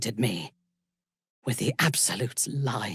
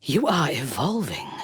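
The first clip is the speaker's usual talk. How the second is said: excited declaration. Acted.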